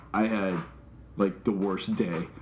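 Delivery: mildly choked-up, low and halting; retold emotional. Streamer confides in his viewers, lightly acted emotional, low. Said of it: "I'm all emotional".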